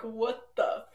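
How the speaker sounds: loud, incredulous retold outburst; playful loud quote of a baffled friend. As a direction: blurt it loudly, half laughing. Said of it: "Like, very loudly".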